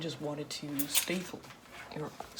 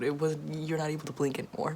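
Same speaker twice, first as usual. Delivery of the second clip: ordinary talk, nothing marked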